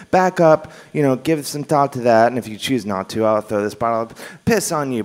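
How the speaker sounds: calm, paced ultimatum with pauses; measured and reasonable. Shown as a demonstration. Comedian shows the wrong polite version, calm and reasonable. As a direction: give him time to think it over. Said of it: "the way I'm saying it, it sounds like".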